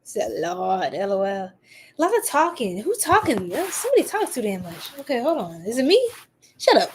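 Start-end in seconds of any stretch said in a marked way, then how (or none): 2.0-6.9 playful sassy clapback. Real, not acted. Streamer teasing about who talks too much, sassy. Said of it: "let me stop being sassy".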